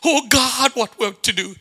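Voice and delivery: lightly imitated pleading prayer; mock tearful prayer. Preacher imitates struggling ministries praying, mock pleading. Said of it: "people are crying and fasting and praying".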